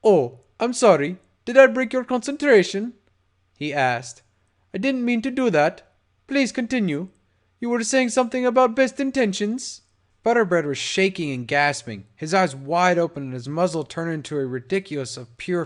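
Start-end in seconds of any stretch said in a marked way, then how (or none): 0.0-9.8 sarcastic. Acted. Gangster mocks after shooting.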